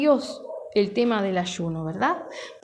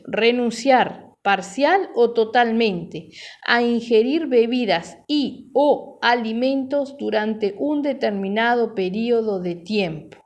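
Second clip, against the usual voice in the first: slow dictionary reading, phrase by phrase; 3 dB louder, slower than usual. Shown as a demonstration. Pastor reading the definition of fasting to the congregation, slow reading. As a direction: read it out slowly and deliberately. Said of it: "Lo voy a leer despacito".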